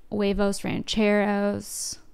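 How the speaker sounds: put-on drawled Valley girl huevos rancheros. Shown as a demonstration. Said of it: "saying huevos rancheros like a Valley girl".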